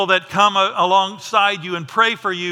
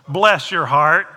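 Southern bless your heart; 2 semitones lower, 4 dB louder, slower than usual. Retold or imitated. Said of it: "we say that in Texas".

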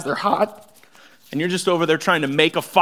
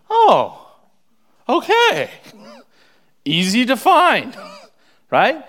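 much higher and louder, light laugh; bright mock surprise; playful laughing aside; 9 semitones higher, 7 dB louder, slower than usual. Real, not acted. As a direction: tease the crowd with a laugh. Playful aside after verse.

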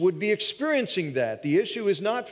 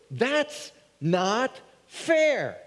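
mock whiny complaint; 5 semitones higher, much slower than usual.

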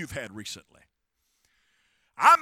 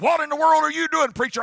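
high, loud incredulous question; mock incredulous; 9 semitones higher, 9 dB louder, faster than usual. Custodian seeing his pastor write notes, mock incredulous. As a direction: imitate a baffled patient demanding an explanation. Patient's retold startled question.

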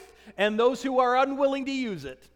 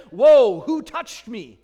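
startled; 10 dB louder, slower than usual. Retold or imitated. Jesus startled in the crowd, loud whoa. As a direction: jolt on the whoa, then ask it. Jesus feels power leave.

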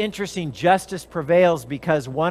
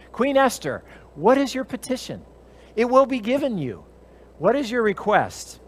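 raised, commanding king's voice; kingly question; 6 semitones higher than usual. Acted. King asks Queen Esther her petition, commanding. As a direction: lift the pitch and ask like a king.

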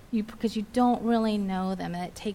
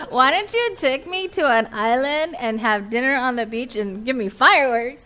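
whiny demand; 5 dB louder than usual. Retold or imitated. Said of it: "I get all irritated and grouchy".

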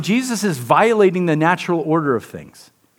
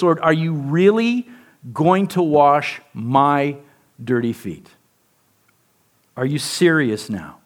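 incredulous Peter; 3 semitones lower, slower than usual. Retold or imitated. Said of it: "in plain English".

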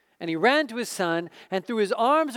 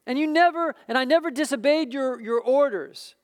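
put-on resentful older son; 4 semitones higher than usual. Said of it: "the older brother became angry".

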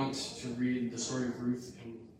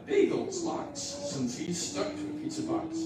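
mock squeaky list; 4 dB louder than usual. Ruth listing scraps, voice rises.

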